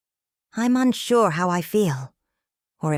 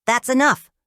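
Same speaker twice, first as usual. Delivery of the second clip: high, loud cutting shout; 8 semitones higher, 6 dB louder than usual. A narrator's reading. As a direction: shut him down at once. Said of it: "Roger shouts".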